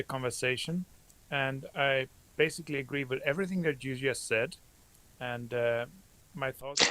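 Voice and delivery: soft, far-off mumble; speaking too softly to be heard; barely audible. Real, not acted. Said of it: "your voice is very low".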